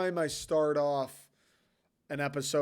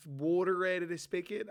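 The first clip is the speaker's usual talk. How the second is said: higher, questioning Philly accent; 4 semitones higher than usual. Shown as a demonstration. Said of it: "different than the guy from Philly".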